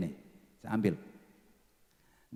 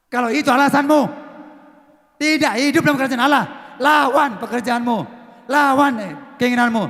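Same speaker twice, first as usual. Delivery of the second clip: loud, high fiery preaching; full-force preaching; 7 semitones higher, 9 dB louder than usual. Acted. Pastor exhorts the congregation to read the Bible, loud and fiery. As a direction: preach it hard, urging the church.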